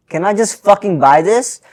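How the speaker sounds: slow, high, fed-up question; exasperated. Retold or imitated. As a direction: stretch it out in disbelief. Exasperated quote at cashier.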